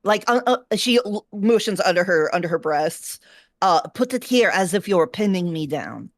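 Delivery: put-on lightly Russian-accented orc warrior. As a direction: coach in a hint of Russian accent. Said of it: "I'm giving a Russian accent".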